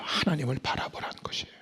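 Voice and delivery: "하나님을 바라보라는" whispered, soft and quick; the point whispered to the listeners. Shown as a demonstration. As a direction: breathe the words "하나님을 바라보라는 것이에요" as a whisper. Whispered restatement.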